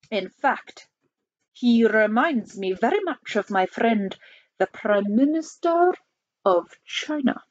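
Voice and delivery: lightly voiced Soviet premier, deliberate; measured Russian-accented speech, slowing at the end. Soviet premier speaks in character.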